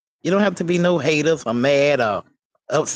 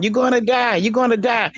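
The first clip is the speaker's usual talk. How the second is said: raised, higher mock holler; hollering the warning, higher; hollering doctor; 8 semitones higher than usual.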